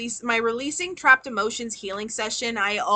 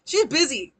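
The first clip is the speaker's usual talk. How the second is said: laughing; 3 semitones higher, 4 dB louder than usual. Real, not acted. Laughs through the line.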